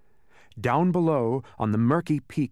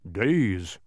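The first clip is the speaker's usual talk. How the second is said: sighed; 3 semitones lower than usual. A narrator's reading. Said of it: "sighed the exhausted dog".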